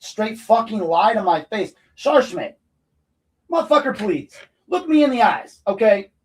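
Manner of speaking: high-pitched, heated outrage; angry confrontation. Real, not acted. Resident confronting a sheriff's officer over a lie, angry confrontation. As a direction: challenge them, pitch climbing in indignation.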